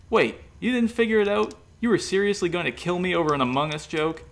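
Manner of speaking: baffled they missed it; incredulous. A narrator's reading. Killer surprised at accusation.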